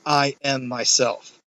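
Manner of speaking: slow, deliberate "I am myself"; measured, drawn-out declaration of "I am myself"; emphatic. Acted. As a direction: give each word of "I am myself" its own weight. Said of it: "that very emphatic".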